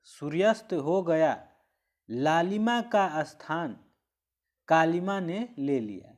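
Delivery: सूर्यास्त हो गया, a long pause, then लालिमा का स्थान कालिमा ने ले लिया; semicolon pause. Shown as a demonstration. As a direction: stop after गया, stretch लालिमा का स्थान. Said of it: "रुकना है". (गया के बाद रुककर)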